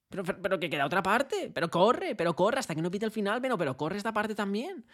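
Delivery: loud, high urging shout; coach shouting. Retold or imitated. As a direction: push the players to keep running. Entrenador gritando a jugadores. (grito de entrenador, agudo y fuerte)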